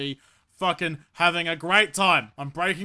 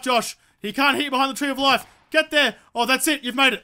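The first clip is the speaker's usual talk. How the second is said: raised, loud self-urging; urgent panic; 4 semitones higher, 5 dB louder than usual. Real, not acted. Player outside the play area racing for the tree, urgent panic. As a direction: push yourself frantically toward cover.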